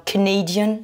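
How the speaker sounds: Canadian starting with a reduced schwa, then NA; schwa first vowel. Shown as a demonstration. Teacher contrasting it with Canada, schwa first in Canadian. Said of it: "vous commencez par le son schwa".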